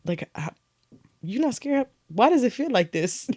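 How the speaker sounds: almost a whisper of bewilderment; hushed disbelief. Retold or imitated. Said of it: "I go".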